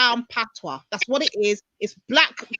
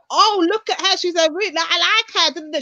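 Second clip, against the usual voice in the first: mock fan raving over a rude white girl; gushing fan voice; 5 semitones higher than usual. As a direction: gush about her like a fan. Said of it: "it's now".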